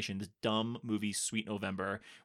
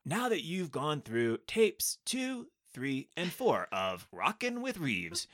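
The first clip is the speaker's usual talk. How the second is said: workout video host; slower than usual. Pretend.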